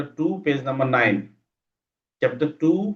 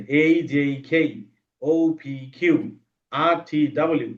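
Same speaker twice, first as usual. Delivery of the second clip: slowly; much slower than usual. Shown as a demonstration. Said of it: "পড়বা ধীরে ধীরে".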